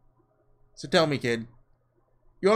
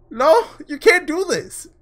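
high, slow, loud, close to crying; tearful no; 12 semitones higher, 8 dB louder, slower than usual. Real, not acted. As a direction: let the no break into tears. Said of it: "I'm actually tearing up a little".

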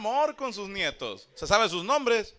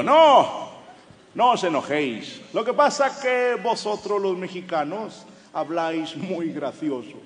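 mock accent from Spain, slow and drawn out; Spaniard Manolo; 4 dB louder, slower than usual. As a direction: imitate a Spaniard explaining in Castilian. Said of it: "Dice Manolo".

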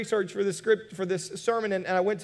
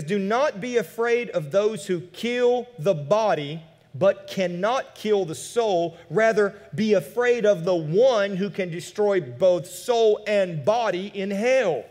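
slow, weighty, louder Bible reading; scripture reading; 4 dB louder, slower than usual. Acted. Pastor reading Jesus' warning about hell, slow and louder. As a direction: press each warning home. Reads Jesus' words slowly.

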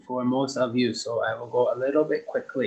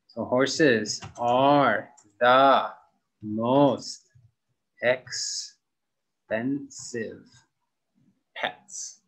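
slow model sentence; much slower than usual. Shown as a demonstration. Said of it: "teacher models the superlative sentence".

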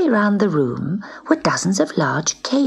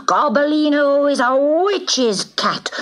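angry outcry; 9 semitones higher, slower than usual. Acted. Angry cats roar it.

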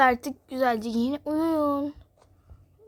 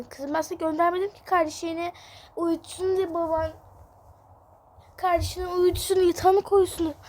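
higher, slightly louder mother voice; mother role; 4 semitones higher, 3 dB louder than usual. Acted. Mother answering her upset daughter, lightly voiced mum. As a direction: sort out the kids like a busy mum.

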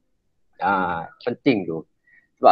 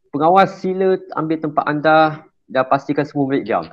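firm, higher-pitched command to the room; 5 semitones higher than usual. Shown as a demonstration. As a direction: give the order firmly and steadily. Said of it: "suara kena tegas".

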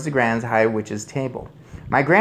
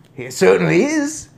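loud, higher, firm voice; emphatic agreement; 8 semitones higher, 7 dB louder than usual. A narrator's reading. First take backing son over cat, emphatic. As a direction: assert it forcefully. Same words before the mouse's squeak.

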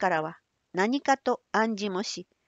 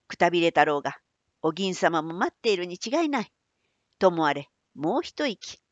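put-on old man voice; 3 semitones lower than usual. Manbei urges Otsu.

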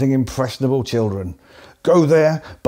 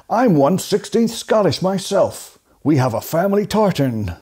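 mock American accent; 7 semitones higher than usual. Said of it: "approximate an American accent".

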